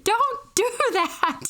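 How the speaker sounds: high, slow, anxious plea; pleading mom. Retold or imitated. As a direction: mom begging her daughter to stop. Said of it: "And she goes".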